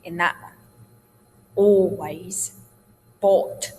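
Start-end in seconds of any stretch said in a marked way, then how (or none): 1.5-3.7 ALWAYS with hardly any l; "aw-ways", "bought" with yawning vowels; yawned open vowels. Shown as a demonstration. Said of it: "hardly any l sound".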